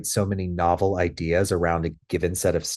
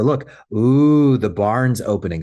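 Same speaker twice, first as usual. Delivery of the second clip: fun voice with sounds; 3 semitones higher, 5 dB louder than usual. Shown as a demonstration. Trainer modeling a fun play statement with sounds, loud and playful. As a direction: gasp in delight at the toy barn. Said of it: "now they're adding sounds in there".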